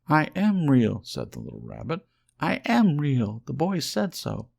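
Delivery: high, loud tearful insisting; near tears. A narrator's reading. Little rabbit insists he is real, high and near tears. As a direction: insist loudly, almost crying. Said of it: "he nearly began to cry".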